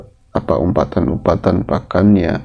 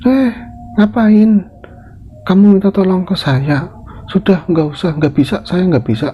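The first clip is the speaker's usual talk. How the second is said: Ratmi's scornful voice; 6 semitones higher than usual. Acted. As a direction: brush her off from way up high.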